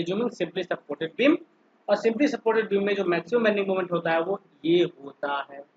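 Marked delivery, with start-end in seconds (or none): 0.0-1.4 slow dictation while writing; dictating. Real, not acted. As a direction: say it slowly, as if writing it out. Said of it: "ये हम लिख देंगे एक line". (लिखते हुए धीरे-धीरे बोलना)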